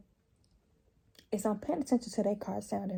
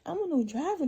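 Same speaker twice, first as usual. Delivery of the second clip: helpless self-quote; 5 semitones higher than usual. Retold or imitated. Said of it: "That sounding dumb as fuck".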